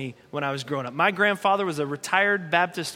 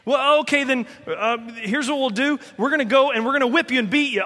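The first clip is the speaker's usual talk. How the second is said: exasperated persecutors; 5 semitones higher than usual. Retold or imitated. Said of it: "persecutors reply".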